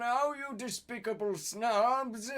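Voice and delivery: angry. Acted. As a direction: snap at them in annoyance. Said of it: "he asked angrily".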